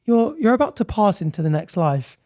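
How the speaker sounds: a hint of a gentle, comforting Grim Reaper; lightly voiced kind Reaper. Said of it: "And Grim Reaper goes".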